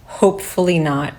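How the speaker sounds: imitated reply after a small laugh; chuckle, then drop the line lightly; chuckled reply. Other officer answering the joke, imitated with a chuckle. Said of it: "the other guy said".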